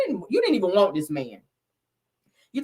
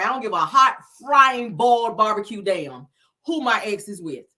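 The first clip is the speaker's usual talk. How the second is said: sassy emphasis. Real, not acted. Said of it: "I'm gonna say it that way".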